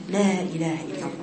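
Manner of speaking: soft, quick, hushed prompt; soft coaxing; gently. Shown as a demonstration. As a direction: prompt the dying softly. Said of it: "تقولي بالراحة".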